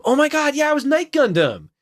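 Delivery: suddenly remember, delighted; surprised. Real, not acted. Sudden realization of old role.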